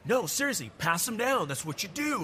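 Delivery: a hint of an entitled fan; insistent stranger. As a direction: imitate him insisting it's normal to share. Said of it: "he's like".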